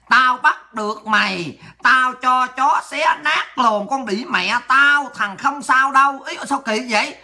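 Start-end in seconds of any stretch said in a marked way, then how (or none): 0.1-6.2 slow, word-by-word reading of a threat; mock reading aloud. Streamer reading a troll's threat to viewers, slow mock reading. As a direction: drag out the comment as you read it. Reads hostile comment aloud, mockingly.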